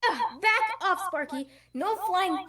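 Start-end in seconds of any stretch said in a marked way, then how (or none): 0.1-1.0 laughing. Acted. Gwen voiced in action scene.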